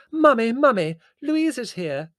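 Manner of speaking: high, loud call to Mummy. A narrator's reading. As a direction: call excitedly through the door. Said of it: "cried Prue".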